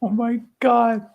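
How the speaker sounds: stunned by the punchline; real amazement. Real, not acted.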